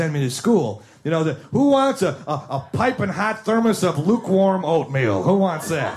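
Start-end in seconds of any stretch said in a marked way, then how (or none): 1.5-5.9 mock-eager offer. Kid hawking grandparents' food at lunch trade, mock-eager. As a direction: offer it like a treat nobody wants.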